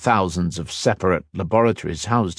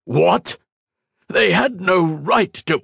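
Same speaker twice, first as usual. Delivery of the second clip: much higher, louder outburst; sudden rage; 11 semitones higher, 3 dB louder than usual. A narrator's reading. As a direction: erupt in outrage. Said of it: "A sudden rage surged".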